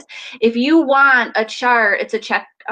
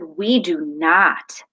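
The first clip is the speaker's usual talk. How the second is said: stern; 5 semitones lower than usual. Retold or imitated. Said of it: "I kept the sternness to my voice".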